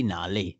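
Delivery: "哪里" drawn out very slowly and softly; slow, soft Chinese demo. Shown as a demonstration. Co-host echoing "哪里" slowly for listeners. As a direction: model "哪里" slowly for learners to repeat.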